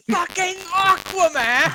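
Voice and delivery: high, drawn-out roar from a video; retold shout. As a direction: bellow it long and high, imitating a shouted outburst. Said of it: "like, fucking shout".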